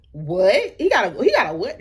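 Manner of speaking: can't believe what you just heard; acting out a stunned double take; incredulous. Retold shock at girlfriend news.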